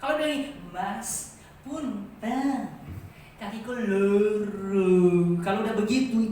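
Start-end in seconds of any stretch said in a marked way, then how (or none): 0.7-4.9 suppressed anger. Retold or imitated. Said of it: "ngomong itu udah marah". (nenek menahan dongkol, suara pelan)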